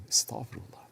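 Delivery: breathy whispered astaghfirullah; whispered repentance. Pretend. Believer repenting to himself in a whisper. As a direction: breathe the word out as a hushed plea.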